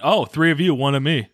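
mock full sass. Retelling her facing three intruders, with mock full sass. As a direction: imitate her with playful defiance. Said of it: "So, full sass. Didn't care".

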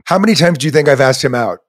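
laughing while asking, fast. Real, not acted. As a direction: giggle through the question. Teasing about asking him out.

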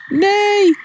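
high, drawn-out cry without full volume; a storyteller's high-pitched shriek; screaming. A narrator's reading. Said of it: "gilde de giraf". (hoog, langgerekt gillen)

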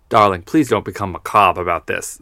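a hint of a chiding grandma; grandmother. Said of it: "says a singer's grandmother".

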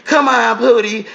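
lightly voiced sister coaxing Pootie; mock Sister Patterson. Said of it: "here goes fucking Sister Patterson".

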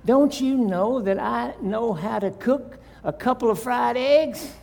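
a wife fed up with the fussing; exasperated wife. Acted. Wife answering her nagging husband, mildly exasperated. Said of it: "and said".

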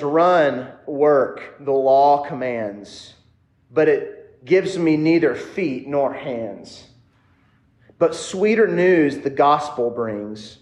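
slow, measured reading of verse; poem recitation. Acted. A preacher reciting a Puritan poem to his congregation, slow and measured. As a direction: lay each line out slowly and deliberately.

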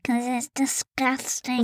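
nose held shut; blocked nose voice; pinching nose. Real, not acted. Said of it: "Why are you talking like that?".

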